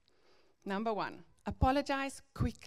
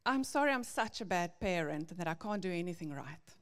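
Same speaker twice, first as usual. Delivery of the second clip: self-pitying apology; 3 semitones lower, faster than usual. Retold or imitated. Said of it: "Or my favorite".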